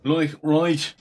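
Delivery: ordinary delivery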